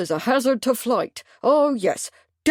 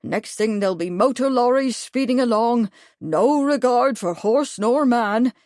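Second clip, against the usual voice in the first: indignant; 4 semitones higher, 3 dB louder than usual. Acted. Major warming to his subject.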